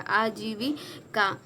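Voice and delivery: आजीविका very slow, syllable by syllable; slow sounding out. Shown as a demonstration. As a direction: draw out aa-jee-vi-kaa in आजीविका. Teacher sounding out the correct spelling. (आजीविका को तोड़-तोड़कर धीरे बोलें)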